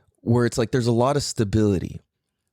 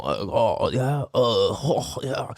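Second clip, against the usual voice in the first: slow, drawling Californian dude; sluggish, mellow California accent; laid-back Californian; much slower than usual. Retold or imitated. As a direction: let each sound ooze out, California-style. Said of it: "like, all slow".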